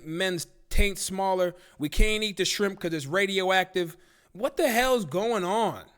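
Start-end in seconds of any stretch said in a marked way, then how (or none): 4.3-5.8 high, drawn-out comic exasperation; exasperated outburst. Acted. Streamer fed up with food scares, exasperated outburst. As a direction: wail it in disbelief, slowly.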